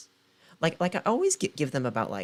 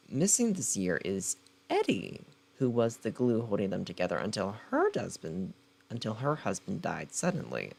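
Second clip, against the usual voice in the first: dramatic book-blurb narration; blurb read; 3 semitones lower than usual. Acted. Reading the back cover to her viewers, dramatic blurb read. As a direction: sell the story like a trailer.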